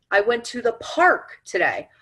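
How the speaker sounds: "park" hit, falling at the end; stress on PARK. Shown as a demonstration. Demonstrating emphasis to listeners, stress on "park". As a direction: lean on "park" only. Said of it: "depending on what you emphasize".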